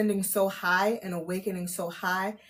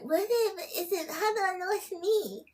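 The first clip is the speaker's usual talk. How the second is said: confused newcomer; 11 semitones higher, 4 dB quieter than usual. Retold or imitated. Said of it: "'Cause they probably like".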